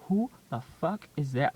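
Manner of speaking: loud, delighted shout; excited outburst. Retold or imitated. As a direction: blurt it out in disbelief. Hearing the radio, laughing.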